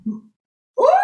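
a high, loud "Ooh" of awe; pretend wonder. Shopper spotting shoes at Macy's, a high thrilled "Ooh". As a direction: coo at something dazzling. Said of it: "we're like".

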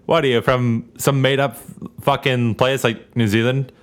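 comedy bit quote. Retold or imitated. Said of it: "a comedy band's bit".

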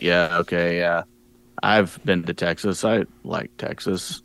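low, subdued mock monotone; barely talking. Out-of-his-league guest beside Terry Funk, barely talking. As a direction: imitate a timid guest, soft and slow. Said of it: "he sounds like he's whispering".

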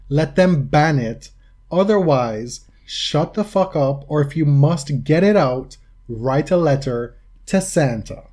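mildly theatrical, deliberate retort; dramatic reading. Acted. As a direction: hammer the point home in mock-dramatic style. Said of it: "give you a dramatic reading".

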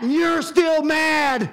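shouted, slow, high; God yelling at Jonah, slow and loud; God shouting. Acted. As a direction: slam it down as an angry God. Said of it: "God is trying to say".

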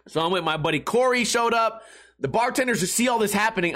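ordinary talk

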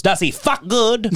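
put-on old man teasing the waitress; mock old man. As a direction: drawl it like the cheeky old man. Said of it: "He goes".

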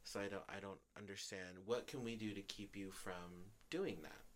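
retold soft, hurt plea; calm and hurt. Speaker asking the ex how to stop it, calm and hurt. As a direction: ask it quietly, without anger. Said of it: "in a very calm and hurt voice".

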